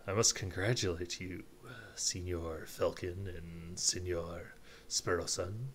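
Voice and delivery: put-on tentative, lightly done Spanish accent. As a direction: attempt a formal Spanish accent, feeling your way. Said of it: "how do I do a Spanish accent?".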